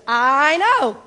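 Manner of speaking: laughing through the words, high and loud. Real, not acted. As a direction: laugh it out at the punchline. Laughing at her own story.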